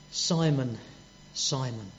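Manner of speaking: a gentle, forgiving call of his name; affectionate call. Retold or imitated. Jesus forgiving Simon's frailty, soft and tender. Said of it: "that same affection in the voice".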